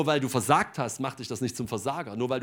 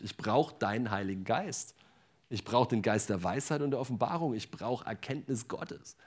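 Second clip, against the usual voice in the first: earnest prayer. Real, not acted. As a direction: pray it humbly, almost to yourself. Speaker turns to praying aloud.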